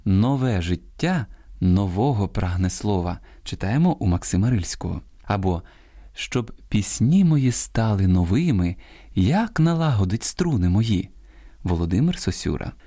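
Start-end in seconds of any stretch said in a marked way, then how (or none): 0.0-3.2 slow verse line, Нове and нового stressed on -ве and -во-; verse showing stress. Shown as a demonstration. Host quotes Рильський as example, second-syllable stress on Нове and нового. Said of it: "треба більше читати поезії". 6.1-11.1 measured verse, новими stressed on -ви-; verse showing stress. Shown as a demonstration. Host quotes Сосюра as example, stress on -ви- in новими. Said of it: "треба більше читати поезії".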